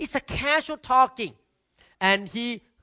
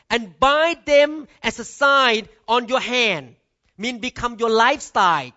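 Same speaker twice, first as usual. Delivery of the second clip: scripture reading. Acted. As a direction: read the verse with weight, word by word. Reads Deuteronomy aloud in sermon.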